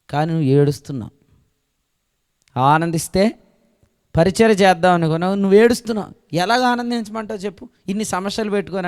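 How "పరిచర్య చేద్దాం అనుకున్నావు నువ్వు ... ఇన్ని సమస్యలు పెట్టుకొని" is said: pleading challenge. Acted. Preacher voicing God's reply.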